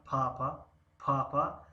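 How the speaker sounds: پاپا said clearly with a rising end; teacher pronouncing پاپا as a dictation word. Shown as a demonstration. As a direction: model پاپا for students to write down. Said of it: "کلمهٔ پاپا رو تلفظ کنم".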